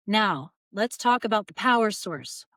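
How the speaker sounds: usual speaking voice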